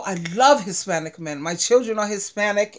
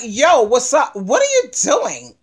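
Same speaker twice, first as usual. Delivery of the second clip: confronting challenge; 4 dB louder than usual. Acted. A woman challenging a stranger on a train, confrontational. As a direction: challenge him like you won't stand for it. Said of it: "she's gonna be like".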